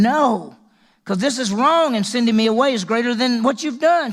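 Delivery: mild acted plea of a wronged woman; pleading Tamar. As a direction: cry out against being sent away. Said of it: "She says to him".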